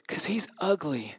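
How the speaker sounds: hushed mock Southern schoolgirl; deep Southern accent. Camp girl explaining her objection, in a deep Southern accent. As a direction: confide it in a put-on Southern accent. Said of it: "deep Southern accent".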